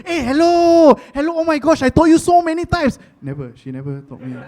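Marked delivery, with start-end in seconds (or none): 0.0-3.0 high, loud exasperated wife; losing it. Retold or imitated. Wife losing it at her forgetful husband, high angry yelling. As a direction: scold at full pitch, mock furious. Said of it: "She lost it".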